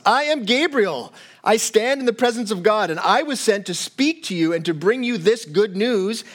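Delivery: a hint of a commanding Gabriel; stern angel rebuke. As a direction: rebuke him with calm authority. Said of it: "So a very stern rebuke".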